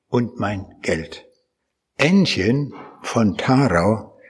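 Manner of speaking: slow, lingering reading of a folk love song; poem recitation. Acted. Preacher reciting his favourite East Prussian love song, slow and fond. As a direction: savour every line like a treasured verse.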